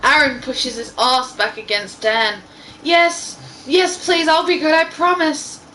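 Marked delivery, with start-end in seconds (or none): 2.8-5.6 higher, hammed-up begging; mock pleading character. A narrator's reading. Reading fanfic lines to friends, mock pleading. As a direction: ham up a desperate plea.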